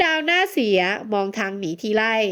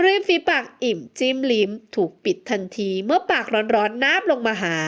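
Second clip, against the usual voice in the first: ordinary delivery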